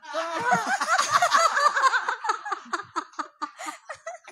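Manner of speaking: long high laughing fit. Real, not acted. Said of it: "Kalau gue kere".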